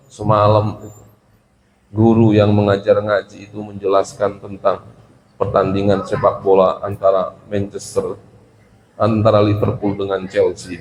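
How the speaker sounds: low, measured reply; polite pupil's answer. Shown as a demonstration. Pupil tells teacher about last night's lesson, politely. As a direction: answer deferentially, keeping the pitch down. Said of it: "menjawab dengan bahasa yang halus".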